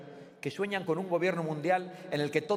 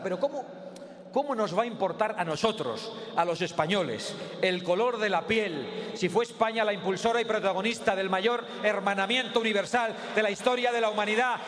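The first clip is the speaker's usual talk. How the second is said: booming balcony speech; 5 semitones higher than usual. Real, not acted. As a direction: build to a roaring close. Rally speech finale, rising peroration.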